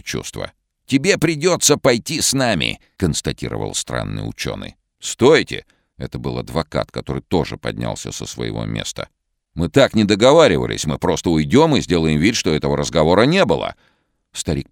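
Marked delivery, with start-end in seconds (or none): 0.8-2.8 sinister other voice. Acted. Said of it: "другим зловещим голосом". 5.0-13.8 alarmed shouting. Acted. Lawyer protests at gunpoint.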